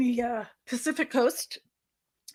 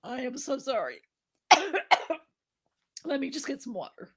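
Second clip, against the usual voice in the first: hoarse from coughing; 4 semitones higher, 4 dB quieter than usual. Real, not acted. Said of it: "are you okay?".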